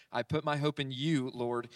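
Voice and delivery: you leaned on, falling after; hope in YOU, Lord; stress on you. Shown as a demonstration. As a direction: land on the word you. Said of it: "And he emphasizes that. He actually uses the pronoun you twice".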